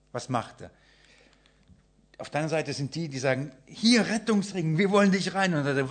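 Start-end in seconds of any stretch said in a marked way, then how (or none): 3.7-5.5 calling from boat. Acted.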